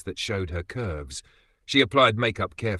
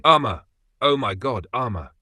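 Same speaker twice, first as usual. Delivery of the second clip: a loud, high cry of her name; alarmed call; 3 semitones higher, 6 dB louder than usual. Acted. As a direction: call out as if shocked to find her. Regina rushes in calling her.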